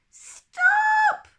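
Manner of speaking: sudden high shout; cried out. A narrator's reading. Ellen shouting to stop Mirabel wasting dad's shaving cream. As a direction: yell it to stop her. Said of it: "cried Ellen".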